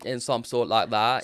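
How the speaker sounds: slow, put-on British accent; drawn-out attempt at British. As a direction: echo it in mock British. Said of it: "you know, British accent".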